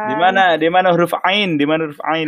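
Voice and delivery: lightly acted bewildered Arab typist; mock confusion. Joking as an Arab given a QWERTY keyboard, mock confused. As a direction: play at hunting for a missing letter, mildly baffled. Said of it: "Bingung orang Arab dikasih Q R T, bingung".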